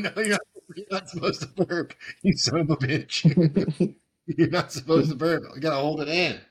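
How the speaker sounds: laughing outrage, high and loud; frat bro. Real, not acted. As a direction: yell at your buddy through laughter. He burps during no-burp challenge.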